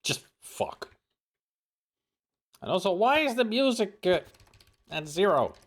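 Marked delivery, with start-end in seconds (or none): 0.0-0.9 whispered curse. Real, not acted. Frustrated under breath.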